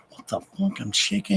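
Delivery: high, hushed imitation of a shaken friend; mock alarm. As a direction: play his alarm high and small. Voicing friend shaking after pills.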